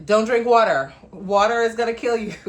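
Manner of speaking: a loud, mocking voice of the so-called experts; hammed-up warning, poking fun at the hype; mock alarmist warning. Host mocks health scare headlines, loud mock warning. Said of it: "they're like".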